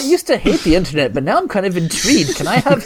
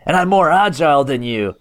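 menacing rant that explodes into yelling; threatening rant; 3 semitones higher than usual. Acted. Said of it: "Dickie Juice one thirty-nine".

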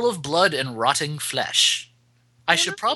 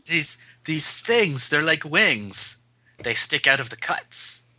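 ominous horror reading; 2 semitones lower than usual. Acted. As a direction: draw it out ominously.

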